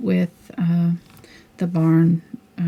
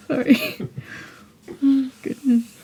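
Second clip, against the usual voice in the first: higher voice breaking up with laughter; giggling; 7 semitones higher, 3 dB louder than usual. Real, not acted. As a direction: apologize through a real giggling fit. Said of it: "You're making me giggle".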